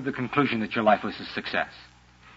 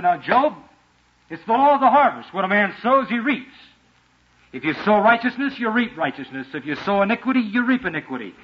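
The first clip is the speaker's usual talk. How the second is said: higher, preachy sing-song moralising; lecturing friends; 4 semitones higher than usual. Retold or imitated. Job's friends lecturing him, a hint of smug preachiness. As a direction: talk down to Job like a know-it-all.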